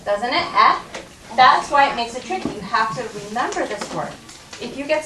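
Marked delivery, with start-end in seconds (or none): 0.5-0.8 the vowel "Eh" held alone; isolated "Eh" vowel for said; short e sound. Shown as a demonstration. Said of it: "It actually sounds like an E".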